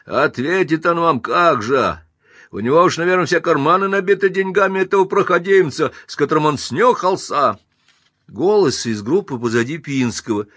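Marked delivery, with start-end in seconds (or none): 0.0-7.6 high, loud mocking accusation; scornful shout. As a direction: jeer at him before the crowd. Bricklayer accuses Pinsky.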